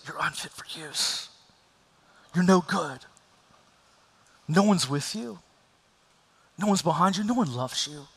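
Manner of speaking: enemy's whisper. Retold or imitated. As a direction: breathe it like a tempter in the ear. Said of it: "what the enemy whispers in our ear".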